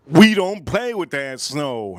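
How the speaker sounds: lightly voiced thug, slow and emphatic; mild imitation of a Detroit tough. Thug warning him about snow, lightly imitated slow tough talk. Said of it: "one of the thugs from Detroit".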